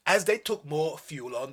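usual speaking voice

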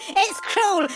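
ordinary delivery

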